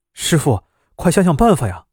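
urgently begging the driver to hurry; urgent plea. Acted. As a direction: press him, half pleading. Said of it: "急迫地问". (急切地恳求)

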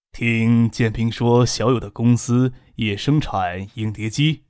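put-on old man speaking. Elderly patriarch voiced in story.

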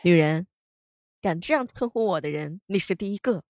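low, cool and cocky; a hammed-up overbearing boss; domineering CEO voice. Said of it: "他们的语录的话呢，那也是相当之油腻".

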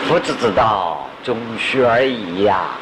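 a disciple solemnly telling classmates. Retold or imitated. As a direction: lay it out gravely, slowly. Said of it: "同学问他".

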